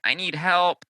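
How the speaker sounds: high, drawn-out whiny cry for help; whiny plea. Acted. A four whining for rescue, high and needy. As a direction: whine it, pitched well up. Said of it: "that four whiny, like".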